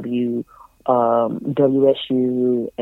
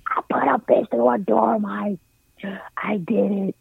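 giddy repeat; 8 semitones higher than usual. Retold or imitated. Repeating the news to Mike, giddy and higher. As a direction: insist on it, delighted with herself.

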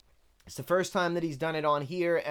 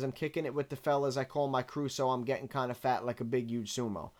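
fast and softer, no break between the bars; run together as one sentence; 3 semitones lower, 5 dB quieter than usual. Shown as a demonstration. Reviewer running the lyric together as one sentence, fast and soft. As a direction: rush the lines together as one thought. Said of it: "What he wants to say is".

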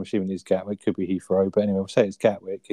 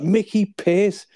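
higher, slow disbelieving echo; incredulous repeat; 11 semitones higher, 3 dB louder, much slower than usual. Retold or imitated. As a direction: Dale aghast at the suggestion, slow incredulous echo. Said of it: "He's like".

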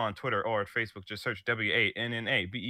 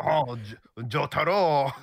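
hammed-up French accent, higher and louder; 5 semitones higher, 4 dB louder than usual. Co-host voicing French JoJo's dub, loud mock French accent. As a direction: call it out as a cartoon Frenchman. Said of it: "with a French accent in English".

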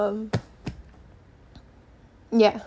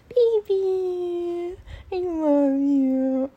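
cooing to the dog; 7 semitones higher, 3 dB louder, much slower than usual. Real, not acted. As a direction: coo it lovingly to your pet dog. Talking to her dog.

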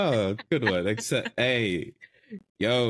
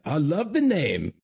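hammed-up Irish accent attempt; bad Irish accent; 4 semitones higher than usual. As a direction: imitate the Irish brother-in-law badly. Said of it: "that's a terrible accent".

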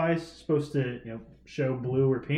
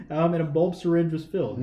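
laughing; 3 semitones higher than usual. Real, not acted. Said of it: "Why are you laughing".

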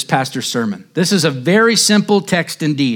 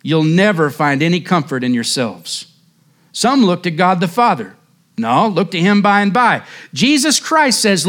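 hint of a broad Essex lay preacher pleading; a mild broad Essex accent in a preacher's fervour; 2 semitones higher than usual. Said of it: "said he in broad Essex".

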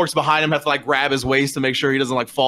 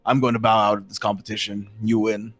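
lower-pitched, understated giant; big roughed-up guy; 4 semitones lower than usual. Acted. Huge orc bows out to his opponent, understated. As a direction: concede in a lowered voice. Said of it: "the big roughed up guy".

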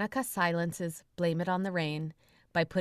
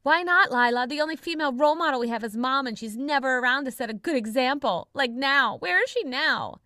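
put-on high, loud bratty kid voice; a young son on speakerphone complaining about Mom; piping kid voice; 6 semitones higher, 6 dB louder than usual. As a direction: pipe up like a whiny little kid. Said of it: "Joey's voice pipes up".

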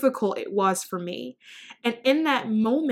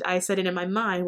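normal talking voice

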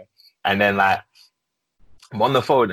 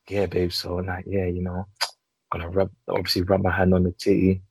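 deep, soft bedroom murmur; low and soft, like late-night phone talk; low seductive voice; 6 semitones lower, 3 dB quieter than usual. Retold or imitated. Retelling low phone-sex talk.

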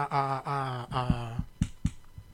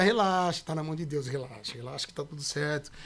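reassuring; 4 semitones lower than usual. Retold or imitated. Retold self-reassurance while sleepless.

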